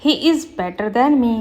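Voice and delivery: slow, careful read of the corrected sentence; slow teacher dictation. Shown as a demonstration. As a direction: lay out each word clearly for the class. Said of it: "right होगा".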